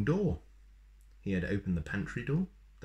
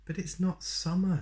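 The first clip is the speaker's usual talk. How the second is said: surprised correction; 11 semitones higher than usual. A narrator's reading. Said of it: "said Little Miss Birthday".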